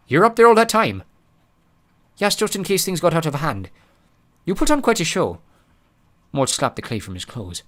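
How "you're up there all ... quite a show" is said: character voice. Acted. Dialogue voiced.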